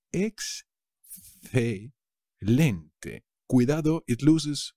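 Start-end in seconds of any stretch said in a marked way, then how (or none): 0.1-1.9 Excelente very slow, rising at the end; slow rising model. Shown as a demonstration. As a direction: stretch Excelente and lift the end. (Excelente muy lento, subiendo)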